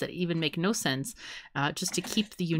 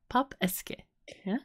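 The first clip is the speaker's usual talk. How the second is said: put-on Italian accent. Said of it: "I was doing it in Italian".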